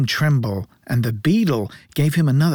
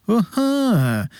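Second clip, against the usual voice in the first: much higher, smug knowing aha; knowing board; 8 semitones higher than usual. A narrator's reading. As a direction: sound pleased with the cleverness. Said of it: "looking very knowing".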